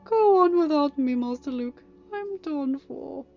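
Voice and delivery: hammed-up droid despair, high then sinking; pathetic. A narrator's reading. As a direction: play the doomed martyr, slowing at the end. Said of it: "three P O replied pathetically".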